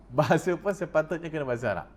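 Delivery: a laughing echo of his own claim. Real, not acted. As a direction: chuckle it back down. Repeats it laughing.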